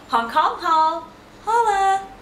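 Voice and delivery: playful haul announcement; excited shout. Real, not acted. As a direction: announce it like a hype intro.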